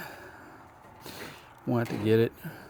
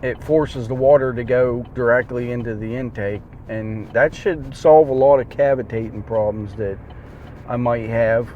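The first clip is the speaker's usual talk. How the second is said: talking while chewing; words around a mouthful of food. Real, not acted. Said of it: "Sorry, chewing's a disgusting habit".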